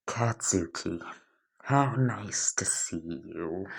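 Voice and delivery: slow, drawn-out sarcastic greeting. Acted. Izuku greeting Bakugo, sarcastic. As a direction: greet with slow mock politeness. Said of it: "You can tell the sarcasm".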